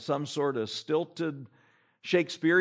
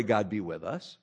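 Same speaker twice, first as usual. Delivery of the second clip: mock pious prayer; 8 semitones lower, 5 dB quieter than usual. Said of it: "Why would you pray".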